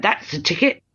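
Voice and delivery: a light, hammed-up bad British accent. Jolly chimney sweep in bad British accent. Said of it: "I'm joining in the bad accent now".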